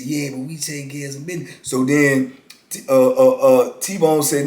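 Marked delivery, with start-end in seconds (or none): 0.0-1.5 low raspy voice. Retold or imitated. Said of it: "he talk low with a little raspy voice".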